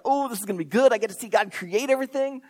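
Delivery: mildly excited, imagined angel; a touch of eager anticipation, lightly acted. Imagined angel about to watch creation, mildly excited. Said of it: "rubbing his hands in anticipation, excited".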